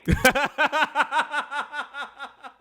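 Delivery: long high cackle; laughing. Real, not acted. Host cracks up at caller's name, long laugh.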